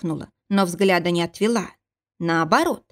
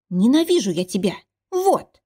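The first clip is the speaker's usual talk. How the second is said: exclaiming; 3 semitones higher than usual. Acted. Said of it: "воскликнула она".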